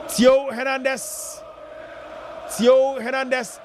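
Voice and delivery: slow drawn-out shout of the scorer's name; stretched name call. Acted. Commentator hailing the goalscorer, slow drawn-out shout. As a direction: drag the name out to celebrate the goal.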